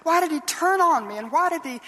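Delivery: lightly voiced child asking mother why; hurt young girl. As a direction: ask like a bewildered little girl. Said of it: "I asked my mother".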